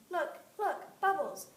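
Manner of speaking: loud, high excited shout. Acted. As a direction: point and call out.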